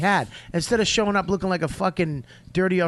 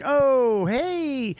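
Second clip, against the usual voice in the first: mock surprised greeting; 6 semitones higher than usual. Everybody's greeting acted in story.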